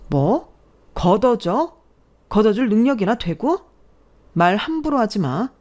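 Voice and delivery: mildly angry comeback with challenging questions; firm retort with a touch of scorn; indignant bride-to-be. Acted. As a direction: stand up to the mother-in-law, affronted.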